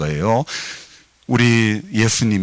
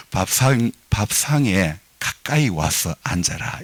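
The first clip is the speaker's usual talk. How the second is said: slow standard translation. Shown as a demonstration. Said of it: "통역을 해야 돼요".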